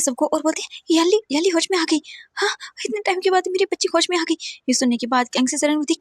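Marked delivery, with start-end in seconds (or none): 0.9-4.3 high, choked joyful crying; weeping with relief; father crying happy tears; tearful joy. A narrator's reading. Father tells family, tearful.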